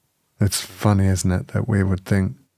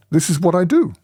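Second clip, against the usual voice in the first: higher voice with a hint of Chinese accent; 7 semitones higher than usual. Visiting teacher explains himself before leaving, light Chinese accent. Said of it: "in English with a Chinese accent".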